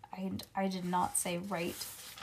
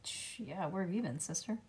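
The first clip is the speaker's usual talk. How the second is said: soft aside; 8 dB quieter than usual. Real, not acted. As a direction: drop to a soft murmur. Aside to yawning child.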